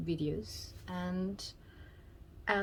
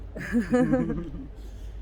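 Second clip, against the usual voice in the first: loud laugh; 4 semitones higher, 8 dB louder than usual. Real, not acted. Wife on a date laughing at the camera, loud laugh. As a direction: burst into a real laugh.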